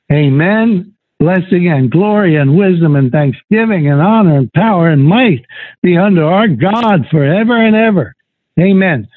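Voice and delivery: exalted Bible reading; scripture acclamation. Acted. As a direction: read it out as a swelling list of praise. Reads multitude's acclamation.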